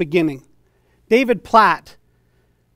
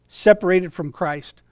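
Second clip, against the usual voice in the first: ordinary talk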